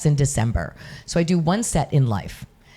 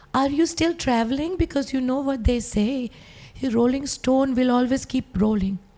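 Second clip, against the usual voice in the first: put-on speaking with Pakistani accent; 8 semitones higher than usual. Quoting her mom asking about travel, in her mom's Pakistani accent. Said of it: "I did my mom's accent".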